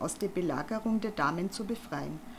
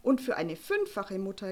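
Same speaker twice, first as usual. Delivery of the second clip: shriek. Acted. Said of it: "kreischte Frau Panzer".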